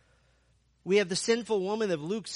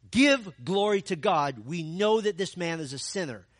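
pressuring Pharisees; 6 dB louder than usual. Acted. Pharisees pressing the healed man, a loud stern demand. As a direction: lean on him to denounce.

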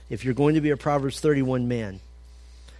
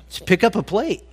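mock nudge; 6 semitones higher, 4 dB louder than usual. Mock advice at buffet.

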